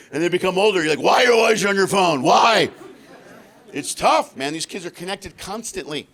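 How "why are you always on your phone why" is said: exasperated parent. Retold or imitated. Parent scolding kid.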